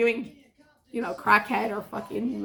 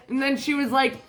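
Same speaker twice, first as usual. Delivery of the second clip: ordinary talk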